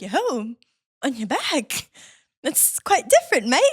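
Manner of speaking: put-on lightly accented, puzzled slug; slug Nigel. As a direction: question it haltingly as the slug. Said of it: "Nigel's like".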